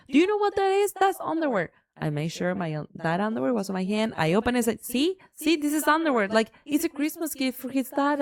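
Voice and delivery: proving to the office the cans are underwear, mocking; retold incredulous reveal. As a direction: show them how silly they are. Retold showing the proof.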